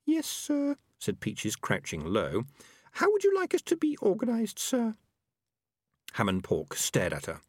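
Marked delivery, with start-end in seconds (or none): 0.1-0.8 very high, submissive small voice; meek Peaches. A narrator's reading. Peaches crouches before the leader, meek and high-pitched. 2.9-5.0 very high, small female rat voice; deferential Peaches. A narrator's reading. Peaches asks the leader for orders, deferential and high.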